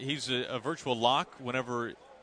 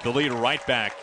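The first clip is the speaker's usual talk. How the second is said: play-by-play call. Real, not acted. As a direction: call it like a big homer. Home run call on air.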